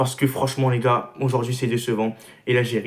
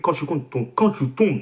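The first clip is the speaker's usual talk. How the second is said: stumbling over words with braces; 3 semitones higher than usual. Real, not acted. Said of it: "désolé pour le bégaiement".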